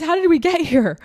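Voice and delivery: whispered, choked with feeling; tearful whisper. Real, not acted. Host asking her audience how this happened, whispering. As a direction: breathe it out in disbelief. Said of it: "getting so emotional".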